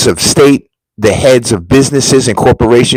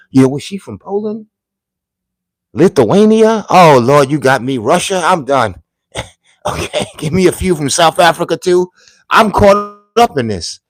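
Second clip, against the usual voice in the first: hammed-up giddy temptation; mock excitement; 6 semitones higher than usual. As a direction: voice jumps higher, playfully worked up. Joking about foreign women, excited.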